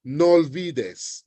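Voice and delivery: "no olvides" run together with one shared o; slow, linked "no olvides", the o's merged; words linked. Shown as a demonstration. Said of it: "Same thing for".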